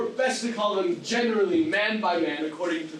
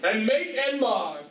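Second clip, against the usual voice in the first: booming tyrant ranting; lofty ranting verse. Acted. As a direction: rant it like Hercules. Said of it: "This was lofty".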